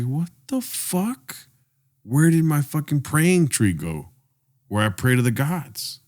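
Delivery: slow, drawn-out British queen; slow British accent. Acted. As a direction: play an affronted British queen, drawing the words out. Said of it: "In a British accent".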